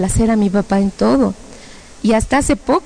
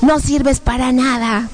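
slow, drawn-out accusing voice; taunting demons; 3 semitones higher, slower than usual. Acted. Demons call her worthless, slow taunt. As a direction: drag it out as a jeering demon. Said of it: "decían".

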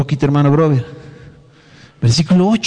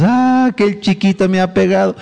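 mock toddler whine; 4 semitones higher than usual. Mocking a complaining toddler.

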